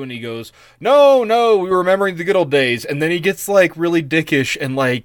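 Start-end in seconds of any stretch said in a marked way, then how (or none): 0.8-2.8 high, fast, innocent protest; hurried, much higher mock-innocent excuse; defensive high voice. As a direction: squeak out a quick denial like a caught guy. Agamemnon's defensive quote.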